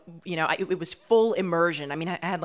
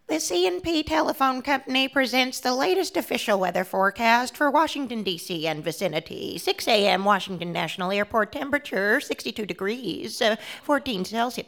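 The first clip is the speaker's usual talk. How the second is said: official recorded announcement read; recorded weather woman; 4 semitones higher than usual. Retold or imitated. Child mimicking the weather recording in an announcer tone. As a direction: announce it like the phone weather line. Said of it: "and the woman".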